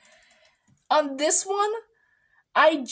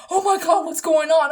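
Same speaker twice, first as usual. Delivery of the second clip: alarmed shout; 3 semitones higher, 4 dB louder than usual. Retold or imitated. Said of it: "Five people came into the room".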